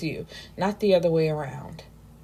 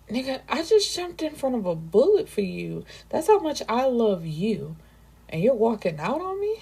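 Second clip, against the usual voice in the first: higher, exasperated real reaction; indignant disbelief; 5 semitones higher than usual. Real, not acted. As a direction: call him out, outraged. Narrator's indignant reaction to Rule.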